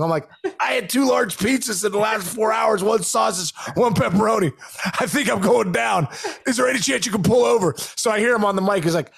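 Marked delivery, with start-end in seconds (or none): 0.6-7.7 desperate pleading. Retold or imitated. Begging coach to stop van.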